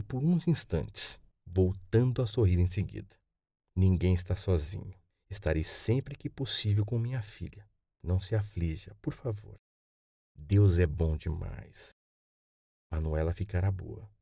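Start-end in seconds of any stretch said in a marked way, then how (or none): 3.8-14.1 lightly voiced gentle grandma, softening; a hint of a calm, comforting grandmother; reassuring grandmother. Grandmother comforts her grandson about his mother, gently reassuring.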